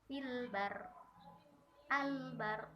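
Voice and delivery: fil bar with a light, thin r, the wrong way. Shown as a demonstration. Teacher demonstrating the forbidden light r. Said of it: "Nah, ini tidak boleh".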